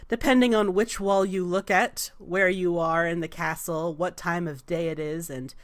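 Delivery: lightly voiced, composed oracle; measured demigoddess. Goddess explaining the palace walls, calm and measured. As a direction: explain with unhurried regal poise. Game master voices the Raven Queen.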